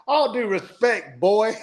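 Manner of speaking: put-on high, slow, drawn-out old man's put-down; old southern man. Old man on the plane to the steward, slow and dry. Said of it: "He goes".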